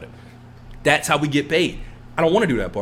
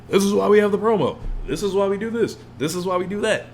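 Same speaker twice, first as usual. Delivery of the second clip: promo voice; 4 semitones higher than usual. Retold or imitated. Acting out wrestling promo voice.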